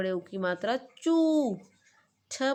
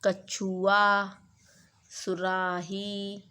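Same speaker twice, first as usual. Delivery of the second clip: slow model words; much slower than usual. Shown as a demonstration. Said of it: "पिछली बार मैंने आपको कराए थे, जैसे".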